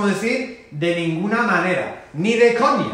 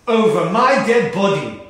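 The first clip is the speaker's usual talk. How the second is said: firm loud refusal; 2 semitones higher, 5 dB louder than usual. Acted. Dad flatly refusing his daughter's tattoo, louder. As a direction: say it louder, a flat no to the teenager.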